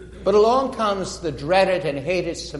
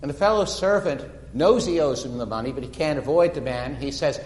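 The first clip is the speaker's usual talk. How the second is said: normal talking voice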